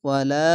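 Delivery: "ওয়ালা" ending on a drawn-out a; elongated vowel. Shown as a demonstration. Teacher models alif after zabar, long ending on "ওয়ালা". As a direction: hold the final a of "ওয়ালা". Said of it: "এক আলিফ টেনে".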